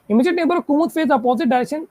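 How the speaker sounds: slow, measured clue reading. Shown as a demonstration. Teacher dictating the next clue to the class, slowly. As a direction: read each word out carefully. Reads puzzle clue aloud.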